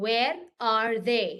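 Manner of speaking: "Where are they" with a pause after "Where"; correct question model. Shown as a demonstration. Teacher repeats the inversion for students, as a deliberate question. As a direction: set "Where" apart, then "are they". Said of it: "I do the inversion".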